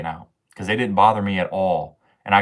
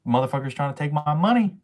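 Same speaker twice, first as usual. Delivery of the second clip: ranting; 6 semitones higher than usual. Real, not acted. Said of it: "I was on a rant".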